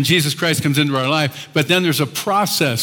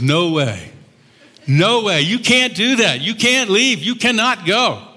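upset protest; 5 semitones higher, slower than usual. Retold or imitated. Peter protests Jesus leaving.

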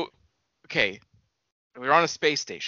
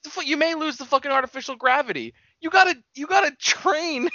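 much higher, near-crying exasperated protest; heated rant; 10 semitones higher than usual. Real, not acted. Insisting to his co-host that crews must train, heated. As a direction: let the frustration spill over. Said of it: "I got so red hot".

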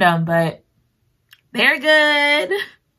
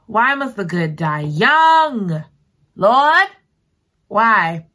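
slow, hammed-up lament to the Lord; half-joking grief over a fictional death; mock lament; 3 semitones higher, 4 dB louder, much slower than usual. Real, not acted. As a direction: wail it like mock mourning.

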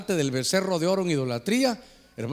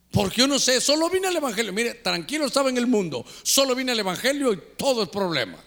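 higher-pitched mock lament; imitated bewildered complaint; 4 semitones higher than usual. New believer complaining to pastor, pleading and higher. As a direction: complain in a raised, put-upon voice. Church member keeps complaining, acted.

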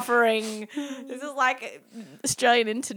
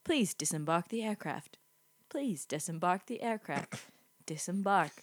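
announcement voice; 5 semitones lower, 9 dB quieter than usual. Retold or imitated. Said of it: "you'll just hear".

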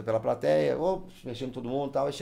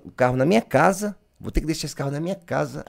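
panicked self-quote; 6 semitones higher, 8 dB louder than usual. Retold or imitated.

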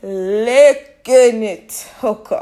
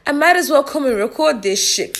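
much higher, retelling a lightbulb moment; sudden idea; 4 semitones higher than usual. Retold or imitated. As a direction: toss it off like a sudden brainwave. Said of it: "And I said".

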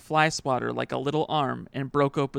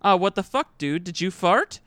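dad's outburst; 4 semitones higher, 5 dB louder than usual. Retold or imitated. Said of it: "and then said".

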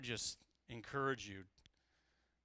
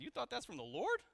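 laughing quote; 11 semitones higher than usual. Retold or imitated. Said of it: "My wife said".

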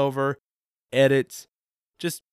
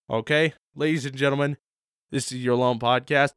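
usual speaking voice

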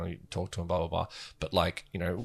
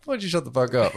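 implied subtext; 3 semitones higher than usual. Retold or imitated. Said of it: "it was just like".

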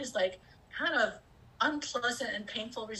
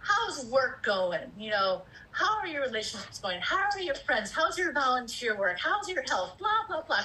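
bright higher voice of eager questions; a high cheery run of check-in questions, slowing on How's work; cheery interested greeting; 3 semitones higher than usual. Retold or imitated. Asking family over and over about their lives, higher and cheery. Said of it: "I'd be like".

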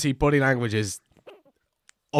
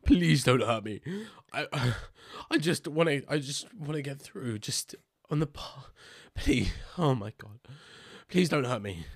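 frightened pleading; 5 dB quieter than usual. Acted. Frightened character begs the dryad.

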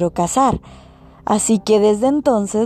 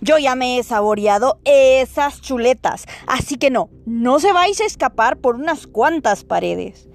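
higher angry wolf voice; furious wolf; 4 semitones higher than usual. Acted. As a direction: snarl threats as a furious wolf. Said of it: "aulló el lobo furioso".

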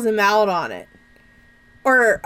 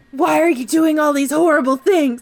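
much higher, hammed-up weepy voice; mock crying; 9 semitones higher than usual. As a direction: overact the sobbing. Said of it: "It's so bad".

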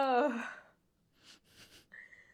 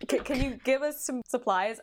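put-on French accent; 3 semitones higher than usual. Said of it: "you sounded more French".

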